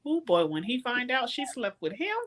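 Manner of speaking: high, rising hoots of glee; excited squeal. Real, not acted. Friend gushing to the book club about the big scene, excited hoots.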